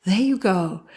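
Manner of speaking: gentle, musical reassurance; tender lilt, as to a small child; soothing mother. Retold or imitated. All the mother says to her kid, soothing. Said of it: "But listen to her voice".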